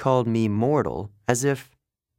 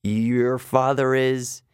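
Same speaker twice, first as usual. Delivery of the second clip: stammering; 2 semitones higher, slower than usual. Acted. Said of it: "I stammered".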